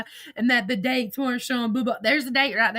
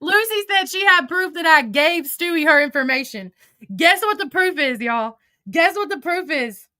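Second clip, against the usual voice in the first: incredulous; 5 semitones higher than usual. Real, not acted. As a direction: build up the outrage. Building outrage telling the story.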